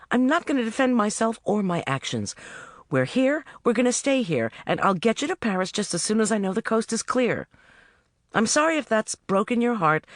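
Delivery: lightly voiced heroine giving orders; heroine's voice. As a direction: heroine telling Jim off and getting on with the day. Narrator voices heroine to demon.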